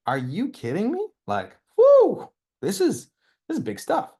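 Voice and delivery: giddy shout of delight; ecstatic whoop. Real, not acted. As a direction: let it burst out of you. Overwhelmed by his own vision.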